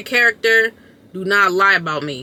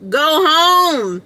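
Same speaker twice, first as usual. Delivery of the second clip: mock scolding; 6 semitones higher, 3 dB louder than usual. Scolding strip club patrons.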